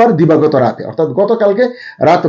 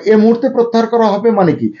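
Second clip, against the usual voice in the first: এ মুহূর্তে pushed higher in a pointed question; stress on এ মুহূর্তে; 6 semitones higher than usual. Real, not acted. Commentator challenging the bank's wording, stressing এ মুহূর্তে. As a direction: lean hard on এ মুহূর্তে, questioning it. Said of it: "আমি এ মুহূর্তে শব্দটির উপরে জোর দিতে চাই".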